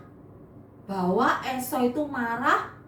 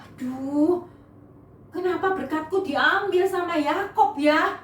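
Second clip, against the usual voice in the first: mild crying; 5 semitones higher, 3 dB louder than usual. Acted. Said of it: "nangis sama papanya".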